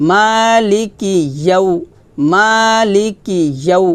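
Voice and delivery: slow recited "মালিকি ইয়াউ", firm palatal glide; mid-tongue on the palate for "ইয়াউ"; "মা" held, "ইয়াউ" articulated from the palate. Shown as a demonstration. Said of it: "তালুতে লাগিয়ে ইয়াউ উচ্চারণ করবেন".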